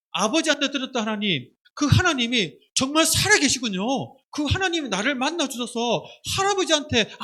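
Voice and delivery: emphatic, wondering declaration; acted awe at a discovery; awed realization. Acting Jacob's awed realization of God.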